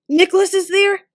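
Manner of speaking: high, loud sharp demand; snapping. A narrator's reading. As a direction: snap the question. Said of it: "snapped Sam".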